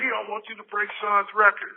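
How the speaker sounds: angry Jerry. Retold or imitated. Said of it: "he was so mad".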